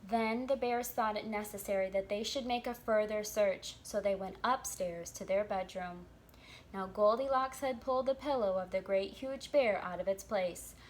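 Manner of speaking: put-on lively read-aloud for children; storybook narration. A narrator's reading. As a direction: tell the tale to little listeners.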